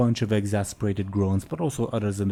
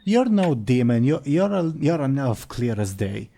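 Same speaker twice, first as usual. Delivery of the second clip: loud, raised dwarf voice; scornful dwarf; 5 semitones higher, 6 dB louder than usual. Acted. Dwarf calling out an elf's false claim, loud and scornful. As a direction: blurt it out as an indignant dwarf.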